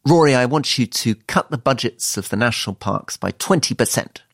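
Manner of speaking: light impression of a politician's odd intonation; Liz Truss. Minister ordering a colleague to cut budgets, lightly imitated. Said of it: "she puts pauses in".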